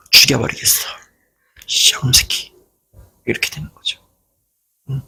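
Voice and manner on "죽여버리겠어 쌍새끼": a seething, unvoiced muttered threat; whispered curse. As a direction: hiss the curse under your breath in rage. Spite flaring up, inner curse.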